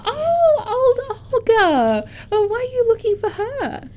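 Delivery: surprised. Acted. Innkeeper surprised by question.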